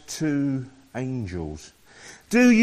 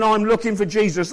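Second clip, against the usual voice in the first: quick, raised eager claim; eager declaration; 4 semitones higher, 4 dB louder, faster than usual. Pretend. Preacher urging congregation to declare it, quick and raised. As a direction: say it as everyone should, eagerly. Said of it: "Everybody should be saying".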